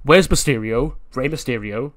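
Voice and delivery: barge in demanding answers; acted loud, confrontational question. Nese barges into Triple H's office, loudly demanding.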